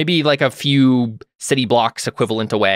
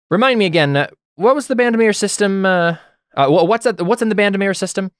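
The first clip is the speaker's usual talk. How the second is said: higher, louder officer's question; commander querying technician; 9 semitones higher, 4 dB louder than usual. Acted. Kareth asks a technician nearby, commanding query. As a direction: raise the voice to a subordinate, pitched up.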